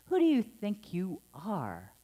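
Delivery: imitating a reproachful parent; mock scolding. Minister recalling a parent's reproachful put-down. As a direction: snap it like a put-down. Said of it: "heard that phrase said like that".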